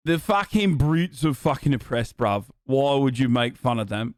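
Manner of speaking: lightly put-on British bruv voice; mock-protest in a British accent. Brit complaining about being made fun of, mock British accent. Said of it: "I'm doing a British accent".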